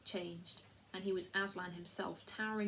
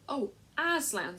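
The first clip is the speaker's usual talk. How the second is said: slow, louder cry of despair; 5 semitones higher, 6 dB louder, slower than usual. Acted. The children cry out to Aslan in despair. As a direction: stretch out his name as if losing him. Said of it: "in despairing voices".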